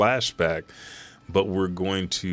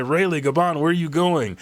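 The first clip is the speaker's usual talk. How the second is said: calling after; 9 semitones higher than usual. Retold or imitated. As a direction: shout after the departing pair. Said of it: "and they say".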